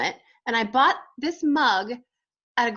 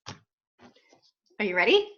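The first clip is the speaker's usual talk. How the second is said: slow; much slower than usual. Acted.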